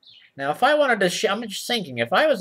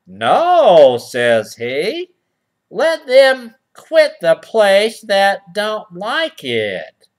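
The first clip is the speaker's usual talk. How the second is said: first read; 4 dB louder, much slower than usual. Shown as a demonstration. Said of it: "let me read that again".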